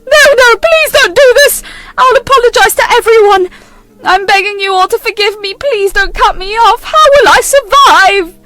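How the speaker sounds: high, loud desperate pleading, slowing at the end; frantic begging. Acted. Mother begging her sons not to cut her off, high and frantic. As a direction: beg them, panicked and high.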